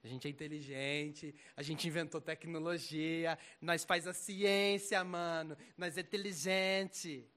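lightly voiced know-it-all, slow and loud on key words; mild parody of a cocky unbeliever; mock smug atheist. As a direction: sneer it out like a proud atheist.

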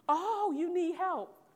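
voicing God with tender slowness; God's gentle voice. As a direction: speak as God, gently reassuring.

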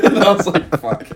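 laughing through a retold curse. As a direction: crack up while swearing at yourself. Laughing at getting offended himself.

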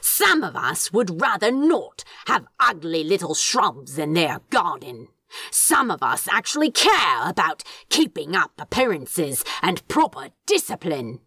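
prickly, haughty demon griping; Crowley lecturing. Acted. Crowley lecturing Aziraphale about garden discipline, haughty. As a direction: sniff at the idea of ugly shrubs, lightly voiced.

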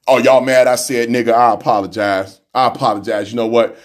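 very low, mock-contrite voice; mock deep apology. Mock apology to viewers offended by his word, very low voice. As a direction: sink low into a fake sorry.

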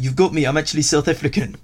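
mock South African accent. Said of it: "switch into another accent and be like".

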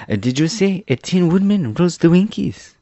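high, hesitant puzzled question; puzzled Jack the Pumpkinhead. Acted. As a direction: ask it in a high character voice, baffled. Story figure Jack asks.

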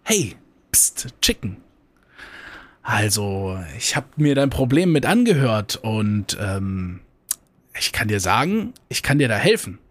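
a hint of a sly fox, hushed start; lightly voiced fox luring the chicken. Fox offering help to the chicken, lightly sly. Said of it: "Der Fuchs sagt".

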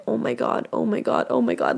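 breathless whispered oh my God; hushed inner panic; whispered to herself. Retold or imitated. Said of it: "thinking to myself".

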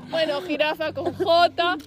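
slow, sing-song spelling-drill voice; kid doing homework. Retold or imitated. Girl doing homework beside a fight, slow schoolkid recitation. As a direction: drag it out like a child copying a dictation.

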